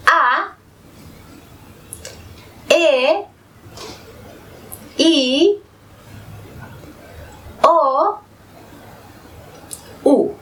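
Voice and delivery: each vowel A, E, I, O, U said alone, open and pure, with a pause after each; vowels spelled out clearly. Shown as a demonstration. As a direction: say A, E, I, O, U one by one, crisp and unhurried. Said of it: "Estas son". (vocales A, E, I, O, U bien claras y separadas)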